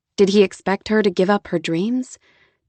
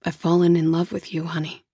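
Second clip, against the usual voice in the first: Jonah, tender; 3 semitones lower, 4 dB quieter than usual. Acted. Jonah voiced.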